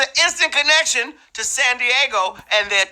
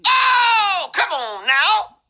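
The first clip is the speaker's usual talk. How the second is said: mock crying; 11 semitones higher, slower than usual. Host mock wails.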